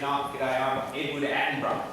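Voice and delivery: lightly imitated clipped English accent; a schoolboy introducing himself in a mock English accent; a touch of a posh English accent. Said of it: "nice, clipped, uh, English accent".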